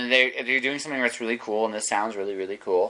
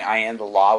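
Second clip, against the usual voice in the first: robot cop, lightly voiced; RoboCop voice; 3 dB louder than usual. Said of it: "with a RoboCop voice now".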